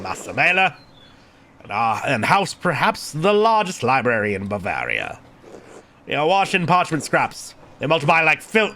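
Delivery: lightly voiced, formal monk; a hint of a testy churchman; measured, mildly impatient prior; irritable prior.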